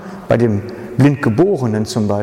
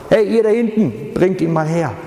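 hoher Zuruf nach hinten; 5 semitones higher than usual. Retold or imitated. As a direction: ruf den Jüngern hinten zu. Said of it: "er ruft einfach dann nach links". (Jesus ruft Jünger herbei, hoch zurufend)

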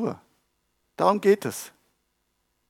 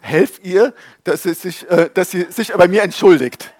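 empörtes Gebet; 3 semitones higher, 8 dB louder than usual. Retold or imitated. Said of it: "und dann hab ich gebetet".

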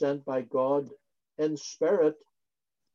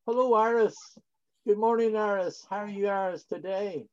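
higher, bright mock greeting to a friend; cheery greeting; 5 semitones higher than usual. Preacher greeting Sister Iris as an example, cheerful and higher. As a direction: sing out hello like a friendly neighbour.

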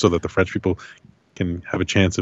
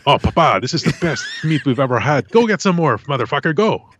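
high, excited and raving; 7 semitones higher, 3 dB louder than usual. Retold or imitated. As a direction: gush over the meat in a high voice. Acted quote of excited eater.

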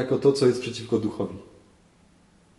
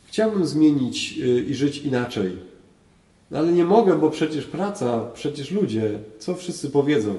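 whiny excuse; 3 semitones higher, 3 dB louder than usual. Retold or imitated. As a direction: sound like someone dodging change. Voicing a person's excuses.

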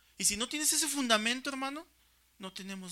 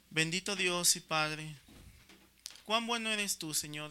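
earnest prayer; 3 semitones lower than usual. Acted. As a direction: pray it out, humbly thankful. Closing prayer.

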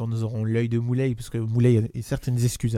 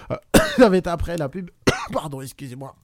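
dry mouth; 4 semitones higher than usual. Real, not acted. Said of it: "j'ai la gorge sèche".

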